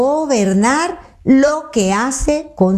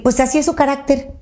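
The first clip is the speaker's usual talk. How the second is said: dismissive excuse; 5 semitones higher than usual. Retold or imitated. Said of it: "no podemos decir".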